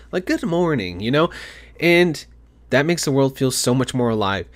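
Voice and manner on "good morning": friendly. Pretend. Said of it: "just friendly tone with them".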